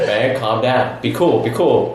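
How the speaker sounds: imitated calm reassurance. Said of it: "Keep 'em calm".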